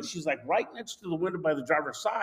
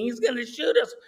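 mildly raised mock scream; retold screaming; 5 semitones higher than usual. Wife to husband as pistol waves, retold screaming. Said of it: "My wife's screaming".

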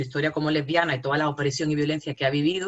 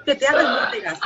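high, louder mock-romantic line; mock poetic; 9 semitones higher, 5 dB louder than usual. Mocking the term as if reciting a love poem. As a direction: ham up a dreamy declaration. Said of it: "Tía, suena poético".

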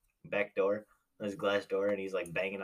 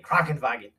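louder mock-German bark; yelled German word; 7 dB louder than usual. Shown as a demonstration. Showing how you learn German, mock yell. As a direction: yell it as a joke German demo. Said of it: "You just yell".

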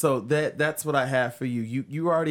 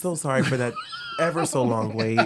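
laughing call center voice. Retold or imitated. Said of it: "turns it on for the call center jobs".

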